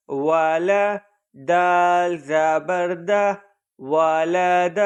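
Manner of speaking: slow chanted Quran spelling, letter by letter; spelling drill recitation. Shown as a demonstration. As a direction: recite each letter and vowel in a measured teaching chant. (ہجے کے ساتھ آہستہ پڑھائی)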